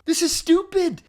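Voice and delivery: high, loud exclamation; acted worked-up outburst; exasperated realisation. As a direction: blurt it out in mock frustration.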